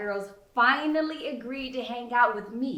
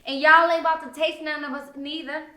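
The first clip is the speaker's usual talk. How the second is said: sassy cracking; 6 semitones higher, 7 dB louder than usual. A narrator's reading. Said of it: "Regina uses my line as a jump off cracking".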